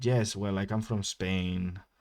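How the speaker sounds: heavy, thick put-on Ukrainian accent. Retelling a chat with a taxi driver, matching his accent; thick put-on accent. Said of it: "I just started talking like this".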